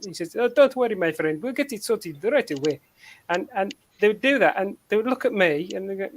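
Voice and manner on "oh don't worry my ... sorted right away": lightly imitated African accent. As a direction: reassure in a put-on African accent. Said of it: "this African accent".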